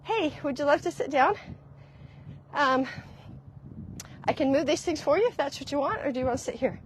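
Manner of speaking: light, open and inviting, no apology; friendly offer. Shown as a demonstration. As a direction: offer the seat as a simple question. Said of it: "That's more communication".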